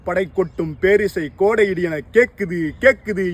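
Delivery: joyful excitement. Acted. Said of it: "என குதித்திட்டால்".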